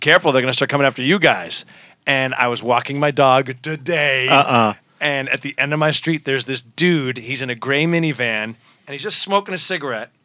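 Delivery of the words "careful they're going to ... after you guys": mock-serious, half-joking tone. Quoting a woman walking out of the room, retelling a half-joking warning. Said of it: "half jokingly walked out of the room going".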